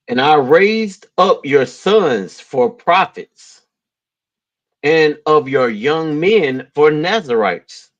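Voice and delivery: slow, measured Bible reading; scripture reading. Real, not acted. Man reading Amos aloud to his co-host, solemn scripture reading. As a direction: read the verse out deliberately.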